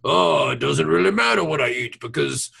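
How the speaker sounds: mimicking an odd character voice, rising later; weird Bashir voice. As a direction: put on a weird voice, pitch lifting toward the end. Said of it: "he has this weird, like".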